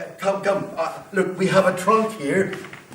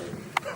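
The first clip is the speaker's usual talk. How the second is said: gleeful laugh; 12 dB quieter than usual. Acted. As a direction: run of staccato ha-ha laughs. Fire character laughs over water.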